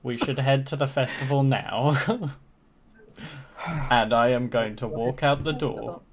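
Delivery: normal talking voice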